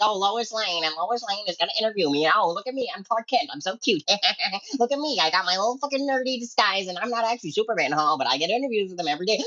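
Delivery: a lightly voiced vain Clark Kent; mock smug Clark Kent. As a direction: sneer as a vain Clark showing off.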